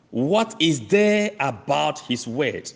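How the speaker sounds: slow question with "there" stretched and stressed. Shown as a demonstration. Preacher slowing the question to stress "there". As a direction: drag it out, weight on "there". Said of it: "This is my emphasis".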